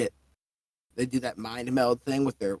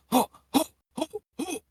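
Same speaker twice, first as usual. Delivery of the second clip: high booming ho ho; hearty laugh. Acted. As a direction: laugh like a jolly giant. Turtle character laughing.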